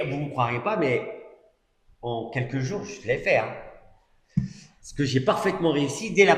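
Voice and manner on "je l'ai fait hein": ordinary talk, nothing marked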